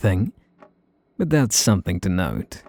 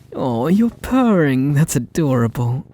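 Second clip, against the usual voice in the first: cooing at kitty; 4 semitones higher than usual. Acted. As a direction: coo over a purring pet. Cooing at the purring cat.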